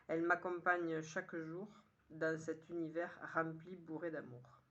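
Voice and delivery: measured poem reading in short, paused phrases; poem recitation. Acted. Poet sharing today's poem with listeners, measured recitation. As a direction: recite it line by line, lifting the opening. Reads poem a third time.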